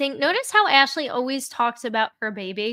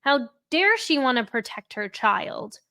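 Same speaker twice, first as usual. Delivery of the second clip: sarcastic mockery. Real, not acted. Sarcastic rant about her portrayal.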